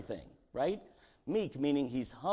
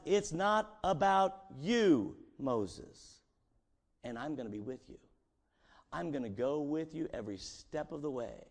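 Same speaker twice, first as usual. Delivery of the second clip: gentle promise. Acted.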